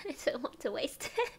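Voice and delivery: giggling. Real, not acted. Giggles while talking about tea.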